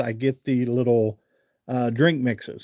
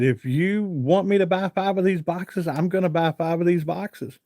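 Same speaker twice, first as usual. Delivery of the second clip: emphatic promise; 5 semitones higher than usual. Retold or imitated. Retelling promise to the lady.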